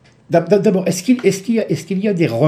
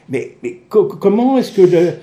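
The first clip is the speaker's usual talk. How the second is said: insistent questioning; 5 semitones higher, 7 dB louder than usual. Real, not acted. Presses doctor for an answer.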